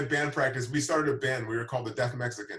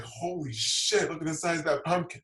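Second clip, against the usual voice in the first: mock amazement; 5 semitones higher than usual. Friend spotting the giant pumpkin from the car, amazed. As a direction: marvel as a retold friend would, drawing it out.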